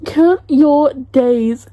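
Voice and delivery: drawn-out, deliberate warning; slow, emphatic threat. Real, not acted. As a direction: COUNT YOUR DAYS very slowly, word by word. Repeats threat to author, emphatically.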